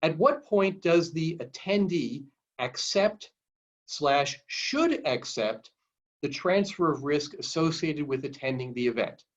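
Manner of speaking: slow, measured read-aloud of a question. Real, not acted. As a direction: read the question slowly, pausing between parts. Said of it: "I'll read it slowly".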